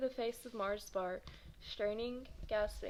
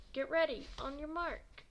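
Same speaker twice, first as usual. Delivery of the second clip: starter's call; 5 semitones higher than usual. Acted. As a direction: call it out over the crowd. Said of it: "Bump called".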